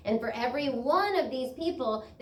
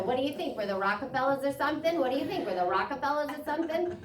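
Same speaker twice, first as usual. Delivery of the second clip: quick, scoffing father's rebuke; a hint of a scolding father, fast; imitating dad; 4 semitones higher, faster than usual. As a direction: rattle off dad's old line. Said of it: "he'd go".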